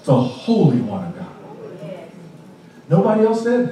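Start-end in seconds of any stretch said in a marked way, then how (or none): 0.0-1.2 low, hushed demon voice. Acted. Preacher voicing the demon, low and hushed. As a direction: drop low and quiet as the demon. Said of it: "And then the demon says".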